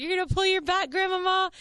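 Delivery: high-pitched mock concern; playful high-pitched ribbing, retold; teasing retold exclamation. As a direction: tease a friend in a high, animated voice. Teasing friend in retold scene.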